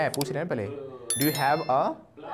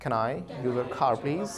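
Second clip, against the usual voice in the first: "can I use your car, please" said very slowly with a rolled r; slow model sentence; much slower than usual. Shown as a demonstration. Class demo, teacher slowly modelling a polite request. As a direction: spell out each word slowly for the class. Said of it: "Once again".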